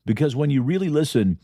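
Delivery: slow, heartfelt podcast closing over music; reflective outro read. Acted. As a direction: let each line settle in, measured and sincere.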